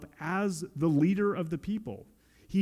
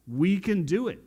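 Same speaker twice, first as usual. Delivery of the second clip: louder, proud "We can do it"; mock boast; 4 semitones higher, 4 dB louder than usual. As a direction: boast like Babel's builders. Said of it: "how they thought when they were building".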